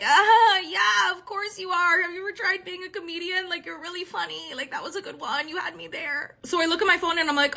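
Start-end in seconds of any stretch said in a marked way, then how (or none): 0.0-6.4 high, placating fake amusement; pitched-up, uneasy mock politeness; nervous humouring. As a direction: act out playing along, softening as you go. Humouring the date after scary joke.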